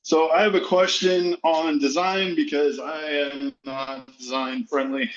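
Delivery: slow and winded after hauling lumber; out of breath. Real, not acted. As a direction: talk while catching your breath. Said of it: "Sorry, I'm out of breath".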